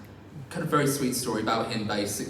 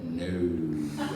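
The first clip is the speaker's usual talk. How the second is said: deadpan no; 7 semitones lower than usual. Retold or imitated. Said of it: "And he went".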